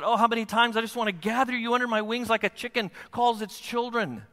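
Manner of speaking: high-pitched, pleading sorrow; brokenhearted lament. Acted. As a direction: lament over those you long to gather. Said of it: "There's a brokenheartedness that says".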